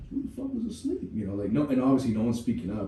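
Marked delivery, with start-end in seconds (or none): 0.1-1.1 much higher, exasperated demand; angry recruit. Retold or imitated. Recruit on the bus asking who fell asleep, exasperated high yell. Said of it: "we're like".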